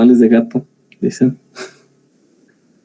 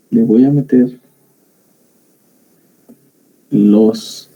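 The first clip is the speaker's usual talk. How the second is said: sly villain with slow evil laugh; mustache twirling villain; slower than usual. Pretend. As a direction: scheme it like a cartoon baddie. Sneaky plan on circuit, evil laugh.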